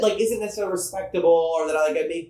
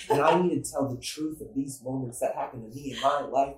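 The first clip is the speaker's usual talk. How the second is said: brooding poet voice; 3 semitones lower, 5 dB quieter than usual. Shown as a demonstration. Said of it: "Edgar Allan Poe".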